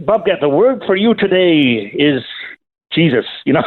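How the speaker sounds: mock Irish radio devotional voice; Irish accent. Caller imitating Bob Gass reading the word for today, Irish accent. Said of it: "I know you love a good Irish accent".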